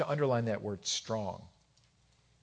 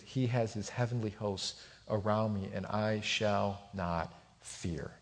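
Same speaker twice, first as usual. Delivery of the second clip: calm assurance; 3 semitones lower, 5 dB quieter, slower than usual. Retold or imitated. Prophet's calm assurance, retold.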